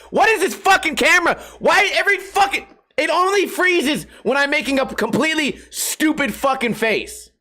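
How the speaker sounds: real frustration. Real, not acted. Streamer yelling at his frozen camera, exasperated. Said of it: "I'm getting so mad at this fucking camera".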